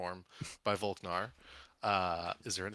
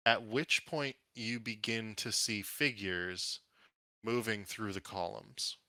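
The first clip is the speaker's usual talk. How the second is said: measured scene-setting with dramatic pauses; unhurried storyteller build-up; game master narration. Acted. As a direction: reveal each new threat one by one.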